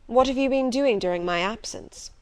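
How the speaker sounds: masculine, commanding tone; gruff master voice. Acted. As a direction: ask it like a stern master. Rochester questions Jane.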